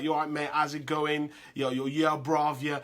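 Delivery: lightly mimicked London street accent; casual mock London slang greeting; a hint of London street talk; imitated London street slang. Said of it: "they didn't speak like".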